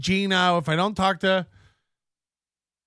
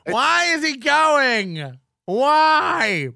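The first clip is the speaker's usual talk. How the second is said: high, drawn-out mocking wail; hammed-up indignant protest; mock outraged yell; 6 semitones higher, 4 dB louder, much slower than usual. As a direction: echo his outrage with a slow, loud, high whine. Mockingly echoing the man in the clip.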